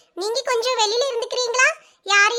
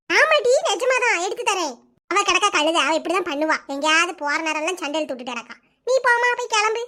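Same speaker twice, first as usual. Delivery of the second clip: put-on lower, gentle mother consoling her crying girl; soothing mother; 4 semitones lower than usual. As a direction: hush her tears like a mum would. Mother reassuring daughter.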